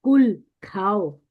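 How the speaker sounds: slow कुल, said with the light kaf; contrasting word demo. Shown as a demonstration. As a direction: hold कुल long and light. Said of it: "मतलब कहो". (बारीक काफ वाला कुल)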